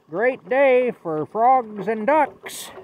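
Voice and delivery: high, loud and very slow; jolly rainy-day greeting. Retold or imitated. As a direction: relish the rain like it's a gift. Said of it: "he would say".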